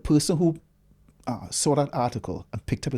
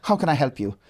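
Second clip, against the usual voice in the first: lightly voiced perky receptionist, pitched up; personable receptionist; 5 semitones higher, 3 dB louder than usual. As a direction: imitate a receptionist with personality, lifted and a bit louder. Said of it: "she has the personality".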